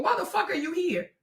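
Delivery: ordinary delivery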